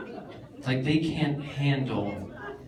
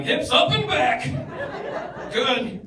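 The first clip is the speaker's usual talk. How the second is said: yoga instructor voice; 10 semitones higher, 4 dB louder, slower than usual. Retold or imitated. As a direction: purr it like a touchy yoga teacher. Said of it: "I'm in class going".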